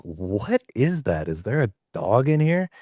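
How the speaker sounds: lightly voiced puzzled customer; mild mock puzzlement; puzzled question. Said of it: "he's like".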